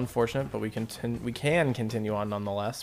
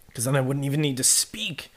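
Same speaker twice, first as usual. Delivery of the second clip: whisper; 3 semitones higher than usual. Real, not acted. Musing about speaking through thoughts.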